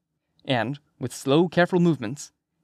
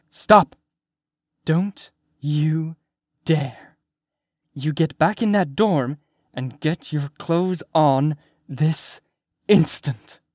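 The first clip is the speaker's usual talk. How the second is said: stern teacher giving an order; teacher bawling out a student; 3 semitones higher, much slower than usual. A narrator's reading. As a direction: scold like a teacher, word by separate word. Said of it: "She sounds like a teacher bawling out a student".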